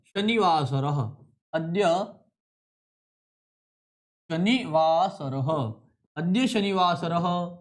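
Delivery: शनिवासरः stretched out slowly, syllable by syllable; slow dictation. Shown as a demonstration. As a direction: spell it out slowly as you write it. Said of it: "यहाँ पर लिखता हूँ साथियों".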